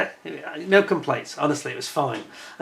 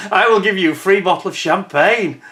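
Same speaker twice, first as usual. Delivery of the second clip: obliging manager; 5 semitones higher, 4 dB louder than usual. Retold or imitated. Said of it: "the other guy was like".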